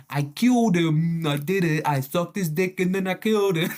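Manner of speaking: badly faked gay Italian accent, hammed up and gleeful. Gay Italian killer confessing after unmasking, badly faked Italian accent. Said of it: "how to do a gay Italian accent".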